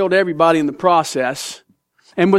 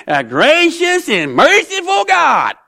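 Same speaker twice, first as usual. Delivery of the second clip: sarcastic Jonah; 2 semitones higher than usual. Acted. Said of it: "you can hear the sarcasm".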